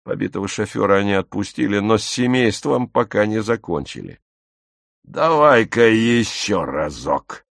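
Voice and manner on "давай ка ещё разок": slow, menacing bark in a put-on voice; drawn-out troop leader's command; barked order. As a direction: order him slowly, as a menacing squad leader. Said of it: "рявкнул труппфюрер на Фишера".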